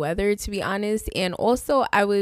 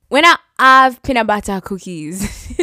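louder broken-English put-on accent; mock foreign accent; 8 dB louder than usual. Host playing the cashier refusing her in a put-on accent. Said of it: "she didn't say in that accent".

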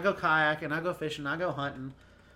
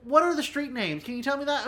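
tag; 7 semitones higher than usual. Retold or imitated. Imitating people asking for street names.

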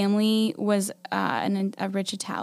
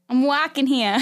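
put-on slightly raised New York-Boston Italian accent; 4 semitones higher than usual. Player recalls her murder mystery line, New York Italian accent. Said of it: "All I could say was".

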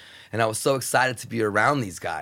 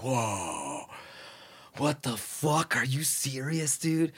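stunned disbelief; 2 semitones higher, 6 dB quieter, slower than usual. Retold or imitated. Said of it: "It's like".

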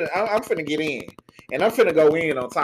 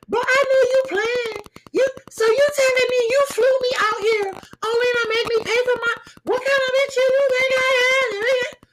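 angry. Retold or imitated. Tasha goes off on him.

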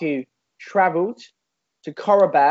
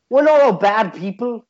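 slipping into an Irish lilt; Scouse attempt that sounds Irish; Irish-sounding accent; 3 semitones higher, 4 dB louder than usual. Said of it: "That's more Irish".

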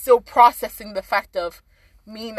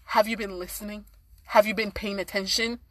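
softer, measured caring question; gentle questioning; 5 dB quieter than usual. Acted. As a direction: model a patient, concerned response. Models the caring response instead of labeling.

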